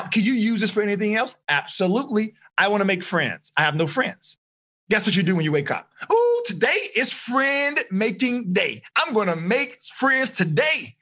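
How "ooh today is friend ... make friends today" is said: eager inner voice, rising higher at the end; excited self-talk. Shown as a demonstration. Teacher voicing a student's excited thoughts, building higher. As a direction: pump yourself up for friend making day. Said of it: "So that is excitement".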